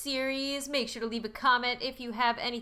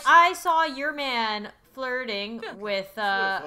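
louder, drawn-out mock accusation; confrontational callout; 5 dB louder, slower than usual. Foxy's rival confronting him over a girl, loud mock accusation. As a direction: voice a character calling out a cheat, loudly.

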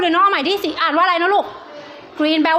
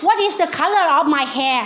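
very slow, each word spelt out clearly; slow teacher English; much slower than usual. Shown as a demonstration. Teacher to young pupils, very slow clear English. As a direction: drag the question out word by word for kids. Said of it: "teacher quizzing young pupils".

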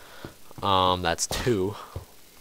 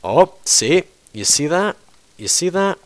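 alarmed pointing out; 7 semitones higher, 6 dB louder than usual. Real, not acted. Pointing out creeper to viewers.

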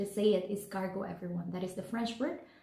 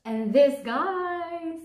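excited; 6 semitones higher, 4 dB louder than usual. Real, not acted. Proudly shows the empty plates.

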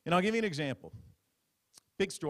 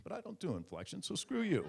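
mock flat anchor; 5 semitones higher, 4 dB quieter than usual. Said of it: "You'd think there'd be an inflection".

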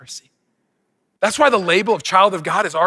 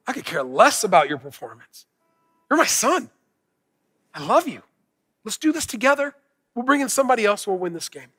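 tender father's reassurance. Retold or imitated. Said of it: "by simply saying".

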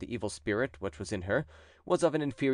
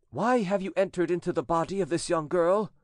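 stern, higher priest voice; exorcist priest; 8 semitones higher, 3 dB louder than usual. A narrator's reading. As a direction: question the demon with solemn authority. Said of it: "he asked the following questions".

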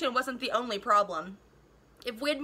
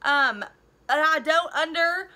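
calling out; 4 semitones higher, 4 dB louder, slower than usual. Acted. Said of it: "I called".

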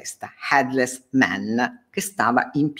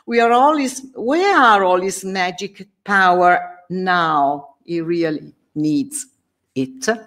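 taunting knight, slow and raised; mocking knight; 5 semitones higher than usual. Knight taunting Faustus's corpse, mocking. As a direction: sneer at the fallen sorcerer. Friedrich's taunt read dramatically.

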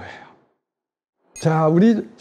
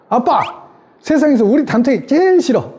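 high, whiny daughter's outburst, raised pitch; mock complaint from a daughter just home from school; upset child complaining; 8 semitones higher than usual. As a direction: blurt it out like a fed-up teen girl. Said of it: "이러는 거예요".

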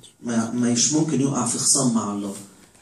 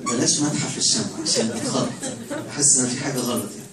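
laughing aside. Real, not acted. Joking with the congregation.

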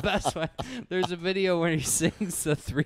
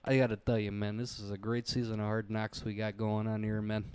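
Jon Gruden; 3 semitones lower, faster than usual. Retold or imitated. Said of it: "John Gruden's always got the".

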